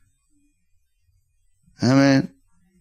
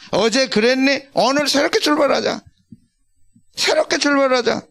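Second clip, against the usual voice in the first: gentle Jesus inviting, higher; a hint of Jesus calling you to begin again, higher; lightly voiced Jesus, raised pitch; 5 semitones higher than usual. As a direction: pastor voices Jesus urging a fresh start, higher. Jesus voiced inviting new start.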